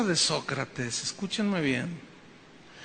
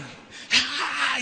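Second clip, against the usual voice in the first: a short mock wail, higher and softer; imitated pagan cry; 5 semitones higher, 6 dB quieter than usual. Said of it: "y gritaban". (grito imitado de culto pagano, agudo)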